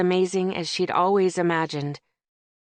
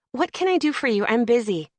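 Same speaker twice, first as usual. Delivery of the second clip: brisk; 5 semitones higher than usual. Acted. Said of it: "she said briskly".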